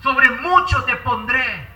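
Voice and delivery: slow, laughing-warm blessing; slow joyful welcome. Acted. The Lord welcoming the faithful into joy, slow and glad. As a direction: welcome them home with joy, unhurried. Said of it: "Y él va a decir".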